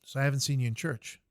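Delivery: the chaplain scolds the private in the hole, a loud sermon-like rebuke; scolding chaplain. Retold or imitated. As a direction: lecture him like a stern chaplain over the edge. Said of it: "And he goes".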